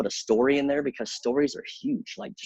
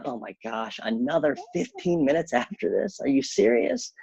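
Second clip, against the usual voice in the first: mock complaining viewer; 5 semitones higher than usual. Voicing a listener's complaint.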